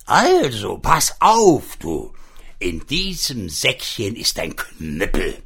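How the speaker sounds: magic pig. Acted. Magic pig explains the club.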